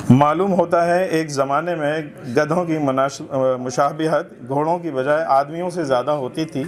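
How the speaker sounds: measured literary reading aloud; humorous essay recitation. Acted. Reader presenting a satirical essay to a literary gathering, recitation. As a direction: read it out for a listening audience.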